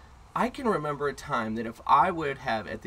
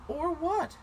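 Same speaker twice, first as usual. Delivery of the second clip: high mocking or what; taunting dare; high challenging taunt. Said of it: "I said".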